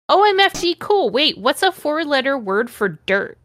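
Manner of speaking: put-on high, excited emo kid; whiny emo teen. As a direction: squeal it like a hyper teen. Emo character voiced excitedly.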